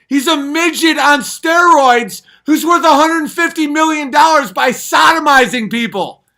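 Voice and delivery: very loud, high screaming rant; furious ranting shout. Real, not acted. Comic screaming about Joe Rogan late at night. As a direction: scream it out in full fury. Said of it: "Am I being too loud?".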